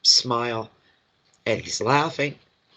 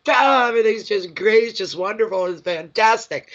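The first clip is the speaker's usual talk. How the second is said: voicing a joyful spirit; 6 semitones higher than usual. Medium echoing the spirit's joy, higher and gushing. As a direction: gush it like someone who's thrilled with everything. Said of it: "that's just what I".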